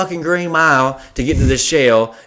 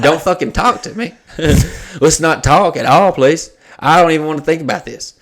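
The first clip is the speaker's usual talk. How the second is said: laughing while talking; 3 semitones higher than usual. Retold or imitated. Laughing, retelling the awkward shared bed.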